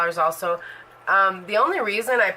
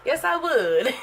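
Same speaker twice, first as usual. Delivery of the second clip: eager yes; 6 semitones higher, slower than usual. Retold or imitated. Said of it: "How did that go?".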